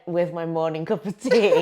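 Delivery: teasing Yorkshire impression, breaking into laughter; lightly mocked Yorkshire accent; imitated Yorkshire accent. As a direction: mimic the guest's Yorkshire accent, amused. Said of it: "couldn't tell where your accent was from".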